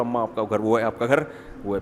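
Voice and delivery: low, soft, respectful address to mother; gently and politely, voice dropped. Acted. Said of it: "تمیز سے الگ رکھو". (ادب سے، دھیمی آواز میں)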